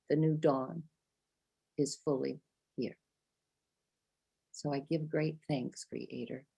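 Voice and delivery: ceremonial prayer. Acted. Prayer leader giving thanks to Creator, hushed and prayerful.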